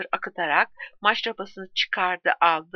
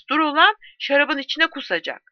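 shouting; 7 semitones higher, 3 dB louder than usual. A narrator's reading. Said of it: "diye bağırdı Letix".

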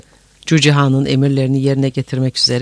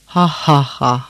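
spoken mock laugh, at usual pitch; acted guffaw; slower than usual. A narrator's reading. Cücehan drowning out the dying khan, acted guffaw. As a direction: fake a conqueror's laugh. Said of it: "Cücehan'ın kahkahasında boğuldu".

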